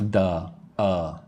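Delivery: "Duh, uh" as short weak syllables; clipped weak forms "Duh, uh"; reduced TO and A. Shown as a demonstration. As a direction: say "Duh, uh" as two schwas. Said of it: "not to and a".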